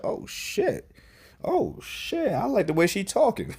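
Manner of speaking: high, breathy-squeaky "oh shit" like a smitten fan; mock excited squeal. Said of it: "Y'all probably saw the memes that I was like".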